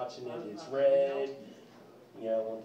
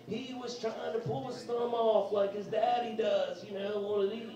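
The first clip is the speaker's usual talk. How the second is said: upset wife; 7 semitones higher than usual. Retold or imitated. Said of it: "And she's like".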